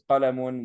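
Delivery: QALAMUN with the -un ending said out; "Qalamun" ending in a clear un. Shown as a demonstration. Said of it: "and I said".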